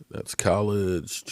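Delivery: slow whisper to himself; whispered aside. Real, not acted. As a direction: mutter it privately while scanning the page. Muttering to himself while reading.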